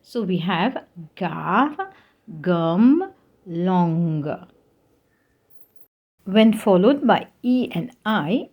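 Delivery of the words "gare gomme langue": gare, gomme, langue with a "guh" sound; French hard G. Shown as a demonstration. Teacher giving hard G examples, gare, gomme, langue with "g". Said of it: "G is pronounced as G".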